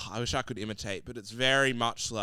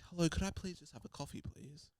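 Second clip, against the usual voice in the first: higher, quick, polite order; polite city speaker; 7 semitones higher, 7 dB quieter than usual. Retold or imitated. Showing what country towns don't sound like, polite city voice. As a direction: hurry politely through the request, trailing softer. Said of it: "people aren't gonna sound like".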